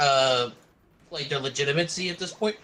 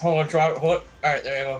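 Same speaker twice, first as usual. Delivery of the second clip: munching popcorn; 4 dB louder, faster than usual. Real, not acted. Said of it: "Sorry, I'm eating popcorn".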